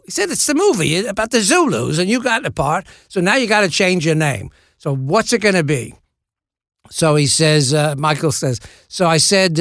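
hammy Cockney anecdote; mock-Cockney storytelling, lively; Michael Caine. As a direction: act out both sides in a rough London accent. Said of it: "This is a terrible Michael Caine impression".

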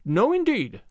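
high, swooping indignant denial. A narrator's reading. Anne rejecting Mister Harrison's teasing, indignant. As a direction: deny it with affronted emphasis. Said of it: "said Anne indignantly".

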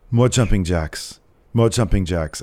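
slow, measured mock fitness coach; deadpan exercise command on repeat; lightly put-on drill voice; Walter. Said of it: "if Walter was doing your tonal".

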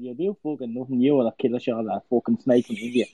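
put-on cocky Irish accent trash talk; Conor McGregor voice. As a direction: snarl it in a brash Irish accent. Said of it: "I can do this as Conor McGregor".

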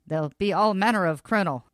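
put-on old-timey radio announcer warning; hammy newsreel voice; 1930s radio announcer. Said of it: "I just like doing that voice".

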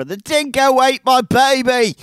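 high, loud bad Australian accent. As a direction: ham up a mock Australian mother. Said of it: "not a good Australian accent".

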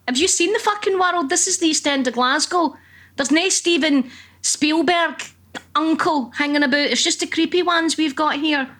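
high-pitched, exasperated disbelief; incredulous retort. Retold or imitated. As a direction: scoff at him as if he's naive. Exasperated retort to husband's dreams.

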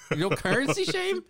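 incredulous. Real, not acted. Incredulous mock challenge.

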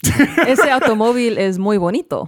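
Spanish on request. Shown as a demonstration. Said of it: "Ooh, do it".

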